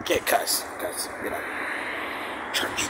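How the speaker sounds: breathy whispered aside, no voice at all; hushed confession that cussing is off limits. Real, not acted. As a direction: drop to a secret whisper about church. Aside about not cussing.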